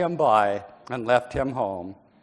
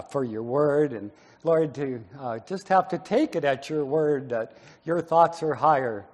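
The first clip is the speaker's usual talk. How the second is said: prayer; 2 semitones lower than usual. Acted. Pastor leads a prayer.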